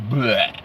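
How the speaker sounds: spoken raspberry-like bleh; disgusted bleh. Real, not acted. Noise for broken computer.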